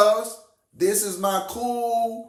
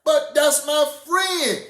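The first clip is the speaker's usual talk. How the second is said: laughing mock excuse; 6 semitones higher, slower than usual.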